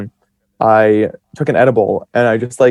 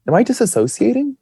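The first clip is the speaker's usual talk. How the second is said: alarmed question; 11 semitones higher than usual. Retold or imitated. A sudden panicked thought.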